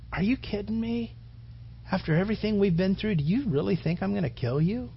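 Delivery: soft, hushed, a touch of tears; gently, as if holding back tears; tearful Joseph. Retold or imitated. Joseph comforting his frightened brothers, soft and tearful. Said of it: "And Joseph cries and he goes".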